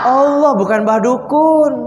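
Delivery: slow, stressed shout of "Allah"; emphatic call. Real, not acted. Preacher answers his own question emphatically to the congregation. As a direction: proclaim it firmly to the crowd.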